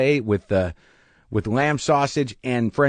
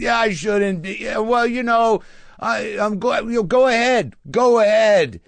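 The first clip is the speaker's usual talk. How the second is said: put-on self-pitying drunk voice, pitched up; 9 semitones higher than usual. Retelling a heckler answering mid-show: imitating a self-pitying drunk. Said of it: "it's a self-pitying drunk".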